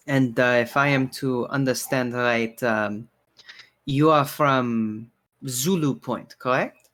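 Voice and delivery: lightly voiced barkeeper, hesitant polite questioning; courteous bartender, curious. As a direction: ask delicately as the bartender, with halting pauses.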